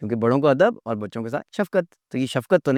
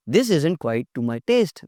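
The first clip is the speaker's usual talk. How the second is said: polite phrasing; much slower than usual. Shown as a demonstration. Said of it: "polite तरीके से".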